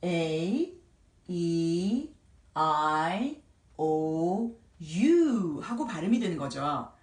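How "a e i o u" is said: "A, E, I, O, U" each held long; long vowel sounds. Shown as a demonstration. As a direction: stretch each letter name "A, E, I, O, U" separately. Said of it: "글자들의 이름대로 발음이 됩니다". ("A, E, I, O, U"를 이름대로 길게)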